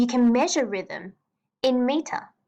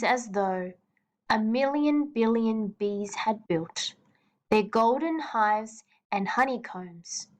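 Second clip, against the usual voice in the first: slow gentle reading. Shown as a demonstration. Teacher reading the night poem to students, slow and gentle. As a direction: let the lines glow slowly, whisper the end. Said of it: "where we have to read it a bit slower".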